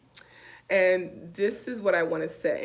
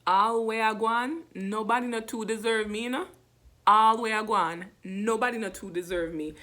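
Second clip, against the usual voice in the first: Jamaican Patois saying; 2 semitones higher than usual. Shown as a demonstration. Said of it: "I just have this saying".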